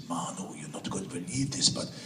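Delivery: mock German accent, laughing through the news. Manager phoning with big news, in a light German accent. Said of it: "She's got this wonderful German accent".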